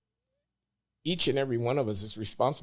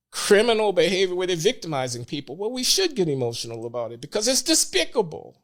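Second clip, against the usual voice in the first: getting emotional; 5 semitones higher, 3 dB louder than usual. Real, not acted. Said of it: "Now I'm getting emotional".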